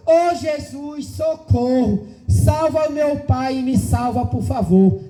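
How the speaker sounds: slow, drawn-out little girl's plea, lightly voiced; a hint of a small child praying for help; child's plea. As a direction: stretch out the first words like a frightened child begging. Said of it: "eu ouvi uma voz de uma criança dizendo".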